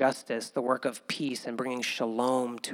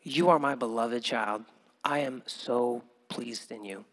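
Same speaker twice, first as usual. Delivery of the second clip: softer, gentle fatherly tone; tender voice of God; 4 semitones lower, 5 dB quieter than usual. Retold or imitated. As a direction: speak it like a loving father to his child. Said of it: "Sometimes God's voice is just him saying".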